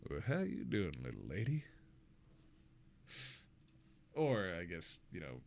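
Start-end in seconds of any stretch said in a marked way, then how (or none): 0.1-1.7 southern charmer, voice sinking on the last words; southern Ara Ara. Shown as a demonstration. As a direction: lay on a smooth, deep southern accent. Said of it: "this is the southern Ara Ara".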